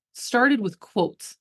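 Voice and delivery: drawn out slowly, each word weighted; slow right down to drive it home; slow emphatic repeat. Shown as a demonstration. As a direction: savor every word.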